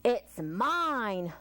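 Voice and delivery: a touch of a grumbling wasp. Acted. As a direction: grumble the claim. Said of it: "the wasp grumbled".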